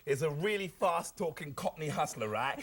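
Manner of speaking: Cockney hustler. Acted. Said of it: "Delbert Wilkins talks like this".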